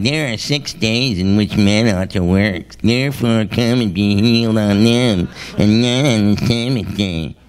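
a mild stern scold from the ruler; indignant ruler. Acted. Synagogue ruler scolding the crowd, mildly indignant. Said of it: "answered with indignation".

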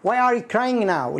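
slow, careful model sentence; slow corrected sentence. Shown as a demonstration. Teacher slowly models the corrected question. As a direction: say it slowly and cleanly. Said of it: "أنا أقول لك مش مية مية".

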